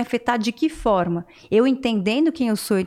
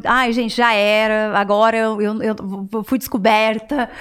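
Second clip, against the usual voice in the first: desperate panic. Retold or imitated. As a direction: play back old despair, half-hearted. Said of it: "eu ficava desesperada". (pânico desesperado, levemente encenado)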